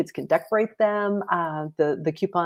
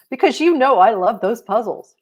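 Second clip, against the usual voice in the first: put-on louder, eager child voice; a hint of a proud kid; young girl Holly; 6 semitones higher, 7 dB louder than usual. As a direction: answer brightly like a little girl. Holly answering.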